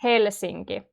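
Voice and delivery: "Helsinki" stepping downwards from "Hel"; falling intonation. Shown as a demonstration. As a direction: let "Helsinki" fall in pitch. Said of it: "The intonation is falling".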